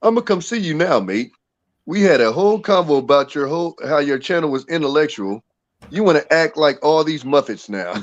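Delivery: a deliberately bad British accent, lightly put on; mock a Brit badly, just to offend; a clumsy half-hearted British accent; horrible British accent. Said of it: "put on my horrible British accent".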